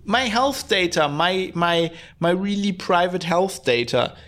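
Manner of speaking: lightly hammed-up "oh God" indignation; mock outrage. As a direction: imitate the outraged public. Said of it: "people are now outraged".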